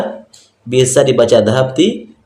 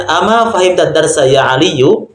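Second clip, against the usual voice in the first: slow model question; 4 semitones higher than usual. Shown as a demonstration. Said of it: "Tapi kalau ada pertanyaan".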